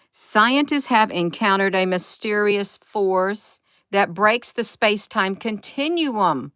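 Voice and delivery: slow, emphatic read-out; deliberate reading of a headline; reading aloud. Real, not acted. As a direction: read it out slowly, word by word. Reads an article aloud.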